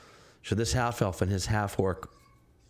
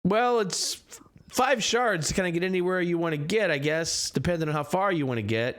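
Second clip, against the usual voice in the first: cab driver haggling; 9 semitones higher than usual. Acted. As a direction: quote the fare like a chatty cabbie. Driver answers about the fare.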